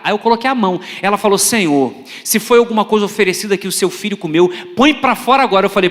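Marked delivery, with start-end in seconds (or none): 1.4-5.7 loud mock deliverance prayer; lightly voiced, forceful prayer; praying church sister. Church sister praying over the phone for sick preacher, mock forceful. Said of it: "eu vou orar".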